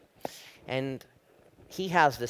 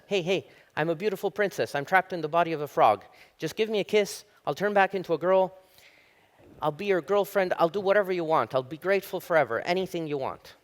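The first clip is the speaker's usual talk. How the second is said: higher-pitched, eager frog voice; pleading frog princess; 4 semitones higher, 3 dB louder than usual. Acted. Frog begs a passing guy for a kiss, higher pleading voice. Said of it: "And the frog says".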